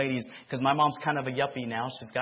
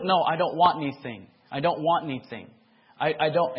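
firm refusal; 3 semitones higher, 6 dB louder than usual. Retold or imitated. Son refusing father.

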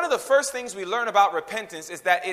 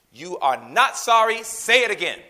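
parent scolding; 4 dB louder than usual. Acted. Parent scolding child after insolent apology.

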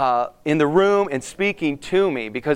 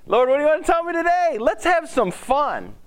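eager prayer; 9 semitones higher than usual. Shown as a demonstration. Demonstrates eager prayer to God.

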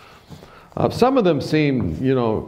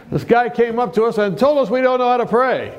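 upset; 11 semitones higher than usual. Retold or imitated. Upset group reports Tony.

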